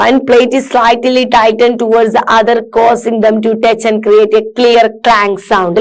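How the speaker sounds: slow, careful read-aloud for students; measured classroom reading. Acted. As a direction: read each word out slowly and clearly. Reads description aloud.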